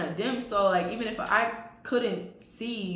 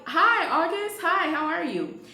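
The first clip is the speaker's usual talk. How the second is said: high, louder, sing-out hello; put-on polite greeting; 9 semitones higher, 4 dB louder, slower than usual. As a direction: greet him extra sweetly, pitched way up. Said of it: "I didn't say".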